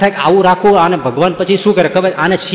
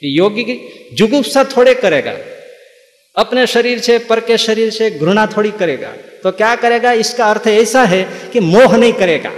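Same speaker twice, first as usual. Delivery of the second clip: higher mock preacher voice in Hindi; mocking storytellers; 4 semitones higher than usual. Preacher imitating storytellers from the pulpit, higher mock tone. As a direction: lightly parody a pompous explainer. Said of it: "આ લોકો સૂત્રનો અર્થ કરે છે".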